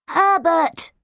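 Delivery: sharp rising call. A narrator's reading. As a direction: snap his name. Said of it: "said Podge sharply".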